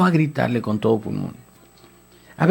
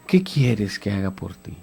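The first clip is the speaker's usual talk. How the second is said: slow, lower, soft voice of Jesus; gentle question; 5 semitones lower, 3 dB quieter than usual. Acted. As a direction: ask him tenderly and slowly. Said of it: "Jesús hace una pregunta". (Jesús pregunta al ciego con calma)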